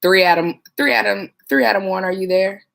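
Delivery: lightly voiced dispatcher hailing an officer; radio call-out. Dispatcher calling an officer over the radio, mild hail. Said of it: "You'd be like".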